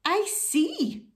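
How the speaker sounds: high-pitched, kindly rabbit voice; high, kind storybook reply. Acted. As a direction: say it with sympathetic understanding. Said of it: "said the rabbit kindly".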